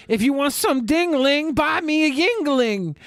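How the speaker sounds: high sing-song come-on; pickup line. Retold or imitated. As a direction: deliver it as a cheesy pickup line. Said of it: "I would walk in and I'd say".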